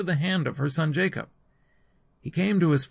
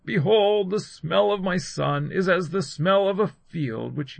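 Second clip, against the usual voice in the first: raised, declaimed blessing; solemn blessing; 5 semitones higher, 3 dB louder than usual. A narrator's reading. Father blessing his son after smelling his clothing, solemn proclamation. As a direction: proclaim it over the son, higher than narration. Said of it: "blessed him and said".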